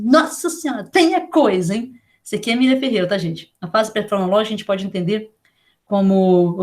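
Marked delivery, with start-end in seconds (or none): 0.0-1.9 retold amazement. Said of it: "Eu falei assim".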